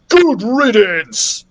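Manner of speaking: slow, gloating shout. A narrator's reading. Captain aiming harpoon at the boy, gloating shout. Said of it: "he shouted".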